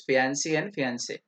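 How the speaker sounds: fiancee and fiance said slowly, fee-ahn-SAY; correct American fiancee. Shown as a demonstration. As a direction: stretch out fiancee and fiance carefully. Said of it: "सही pronunciation".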